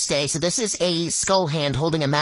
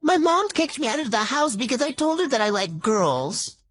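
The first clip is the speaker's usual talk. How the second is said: high-pitched, distressed telling; acted high-voiced distress; upset confession; 6 semitones higher than usual. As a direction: wail the news to a friend. Upset, explains being kicked out.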